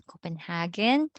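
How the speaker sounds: Copenhagen with a hard g before -en; English hard G. Shown as a demonstration. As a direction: sound out the g in Copenhagen as in go. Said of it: "our alphabets and G is G".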